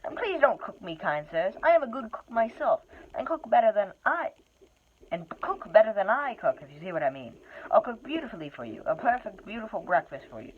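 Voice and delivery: a captured hobbit begging for his life; lightly voiced hobbit begging; pleading hobbit. Hobbit begs not to be cooked.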